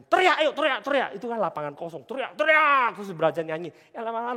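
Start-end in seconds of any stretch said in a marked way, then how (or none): 0.0-1.1 loud, higher coaching call; imitated shouted urging. Akhirnya saya diajarin. 2.0-3.0 loud, high coaching call; imitated shouted urging. Akhirnya saya diajarin.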